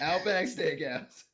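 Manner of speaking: put-on clumsy Irish accent, vaguely Russian; attempted Irish accent. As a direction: draw it out in bad Irish. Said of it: "can you do your Irish accent then".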